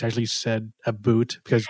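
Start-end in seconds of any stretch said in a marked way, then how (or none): 0.8-1.4 Canadian "about" said as "a boot", lower; mock Canadian "aboot"; Canadian accent. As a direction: lightly imitate the Canadian "aboot". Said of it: "you didn't believe Canadians".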